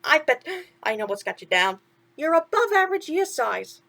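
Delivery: chirpy sidekick asking what's wrong; a hint of cartoon mouse; lightly voiced mouse. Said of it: "Timothy said".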